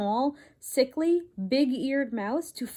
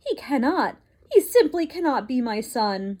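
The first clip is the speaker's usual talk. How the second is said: despairing father mouse; 2 semitones higher, 4 dB louder than usual. Acted.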